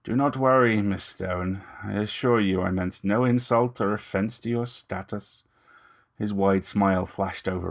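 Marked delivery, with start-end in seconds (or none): 0.0-5.4 lightly voiced vampire gentleman, smooth and ingratiating; a hint of menace under courtesy; vampire purring false reassurance; Moust, oily vampire.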